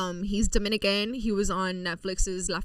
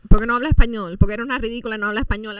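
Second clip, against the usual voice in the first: mocking commenters; 10 dB louder, much faster than usual. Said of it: "they're like".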